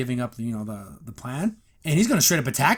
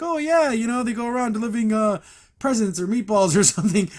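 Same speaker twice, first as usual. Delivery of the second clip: high, airy voice of a girl playing dumb; breezy Ivy; 7 semitones higher, 4 dB louder than usual. Retelling Ivy brushing off the henchman, high and airy. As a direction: toss it off like you're barely listening.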